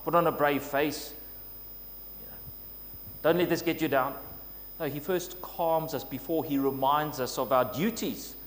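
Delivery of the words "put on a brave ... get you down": a hint of a stern brush-off; lightly voiced stern taskmaster; mildly stern person telling them to cheer up. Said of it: "someone who's stern and says".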